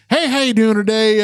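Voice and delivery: white people voice. Retold or imitated. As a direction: slip into your polite phone voice. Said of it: "my white people voice".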